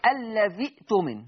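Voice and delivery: "الذي اؤتمن" with a glottal stop after الذي; Hafs reading. Shown as a demonstration. Teacher showing students how Hafs reads it, hamza sounded in "الذي اؤتمن". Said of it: "حفص بيقول كده".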